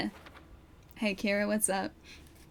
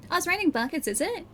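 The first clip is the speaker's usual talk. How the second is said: mock surprise; 8 semitones higher, faster than usual. Real, not acted. Teasing a chat comment.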